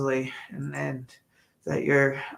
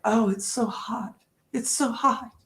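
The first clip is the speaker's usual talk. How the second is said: whiny husband; 7 semitones higher than usual. Retold or imitated. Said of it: "he'd be like".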